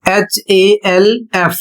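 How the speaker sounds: slow letter-by-letter spelling; spelling it out for students; spelled out. Shown as a demonstration. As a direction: spell एचएएलएफ़ slowly, letter by letter. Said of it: "दूसरा शब्द है".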